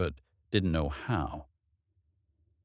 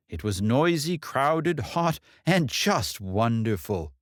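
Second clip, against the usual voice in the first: raised, mildly reproachful mother; a hint of a scolding mother; mother's jab; 6 semitones higher than usual. Mother reminisces about family.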